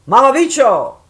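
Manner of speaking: high, loud, drawn-out Spanish curse; showing off curses. Shown as a demonstration. Showing Marina she knows cuss words, loud show-off. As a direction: belt out a foreign swear word playfully. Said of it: "I know some cuss words".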